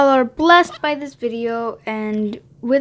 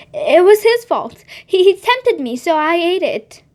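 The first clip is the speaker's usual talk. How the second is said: defensive blame; 5 semitones higher, 3 dB louder than usual. Acted. Woman blaming the snake.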